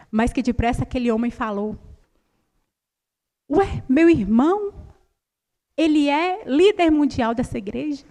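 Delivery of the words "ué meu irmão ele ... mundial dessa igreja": surprised question. Retold or imitated. Doctor asking patient about her church leader, surprised. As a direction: retell his puzzled surprise, pitch raised. Doctor reacts amazed to their religion.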